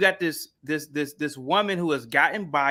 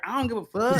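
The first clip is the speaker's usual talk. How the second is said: Meghan Markle; 6 semitones higher than usual. Acted. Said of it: "And she's like".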